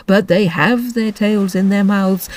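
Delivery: slow, weary turtle repeating; drawn-out correction; Mock Turtle. Mock Turtle repeats Alice's words.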